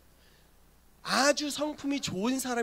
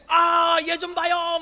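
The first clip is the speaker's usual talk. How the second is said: high, loud hammed-up tattling; mock complaining shout; 8 semitones higher, 7 dB louder, much slower than usual. Girl calling people to look at him, high mock shout. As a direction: call out to everyone like a tattling kid.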